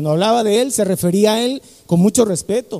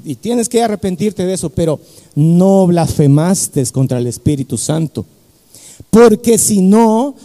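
lightly voiced calm pastor; 5 semitones lower than usual. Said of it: "Y le dice".

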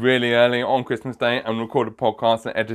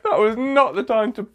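embarrassed laughing; 10 semitones higher than usual. Real, not acted. Still laughing at his slip.

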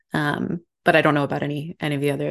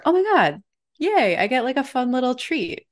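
sudden thrilled burst of joy; excited squeal; 7 semitones higher than usual. Retold or imitated. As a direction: squeal over a little treat. Retelling her weekly reaction.

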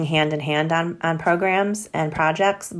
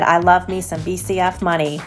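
a hint of a Southern accent, relishing the words; 2 semitones higher than usual. Plant partner from South Carolina gushing over grants, mild Southern accent. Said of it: "in his awesome Southern accent".

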